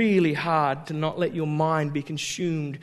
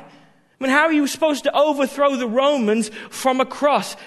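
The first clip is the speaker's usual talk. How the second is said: loud, higher indignant disciple; protesting Peter; 5 semitones higher, 4 dB louder than usual. Acted. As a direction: whine and argue like a frustrated friend. Peter voiced protesting to Jesus.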